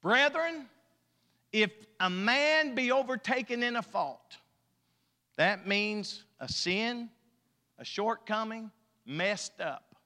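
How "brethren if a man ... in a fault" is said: raised pulpit declamation; ringing Bible reading; scripture reading. Acted. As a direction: proclaim the old verse, pausing after the address. Declaims King James verse.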